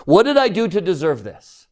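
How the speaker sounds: slightly high, self-pitying whine; a touch of wounded complaint; whiny phrase. Retold or imitated. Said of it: "All these phrases you hear".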